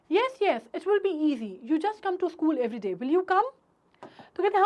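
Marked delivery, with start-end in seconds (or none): 0.1-3.4 encouraging. Acted. Teacher reassures shy child.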